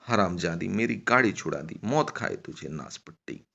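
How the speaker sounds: grumbling angry abuse, falling away; mildly heated scolding that sinks at the end; cursing. Acted. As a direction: curse her with moderate, acted anger. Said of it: "गालियां बकती हुई".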